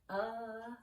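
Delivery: UH as a drawn-out, idle schwa; lazy vowel sound. Shown as a demonstration. Teacher showing class the lazy vowel, UH held as if thinking. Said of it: "Sometimes vowels like to be lazy".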